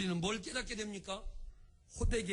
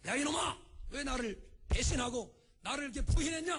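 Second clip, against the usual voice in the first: high, shouted mock telling-off; angry scolding; 6 semitones higher than usual. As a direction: scold like a master raising a switch. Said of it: "주님이 회초리 들으시고". (회초리 든 듯 높게 호통치며)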